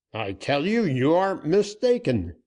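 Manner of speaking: high, loud pleading denial; desperate insisting. A narrator's reading. Banker insisting to Dick, desperate and high.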